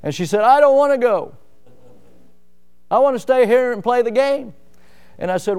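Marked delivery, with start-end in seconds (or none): 0.4-4.5 put-on upset little girl. Girl crying, refusing to leave.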